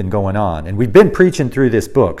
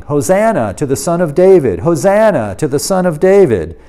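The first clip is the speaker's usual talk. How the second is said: crowd shouting; 4 semitones higher, 3 dB louder than usual. Retold or imitated. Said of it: "They were shouting".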